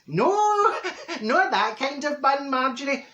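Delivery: high, laughing through the words; amused man's retort, laughing; laughing quote. Retold or imitated. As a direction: giggle out the correction. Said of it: "And he says".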